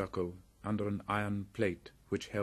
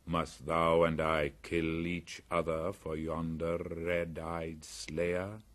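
panther voice; slower than usual. Acted. Bagheera questions Mowgli.

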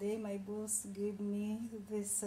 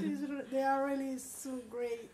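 tear-soaked laugh. Real, not acted. Emotional thanks after don't cry.

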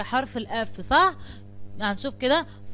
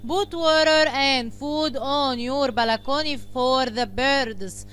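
slow, each word spaced out for the class; slow teacher dictation; much slower than usual. Shown as a demonstration. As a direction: dictate it slowly so pupils can follow. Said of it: "يلا كده معايا نمبر وان".

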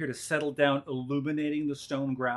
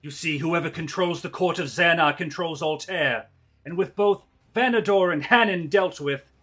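loud villain monologue, rising to a shout; slow theatrical villain menace; 3 semitones higher, 5 dB louder than usual. Acted. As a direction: gloat like a scheming noble. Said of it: "give me a villain monologue".

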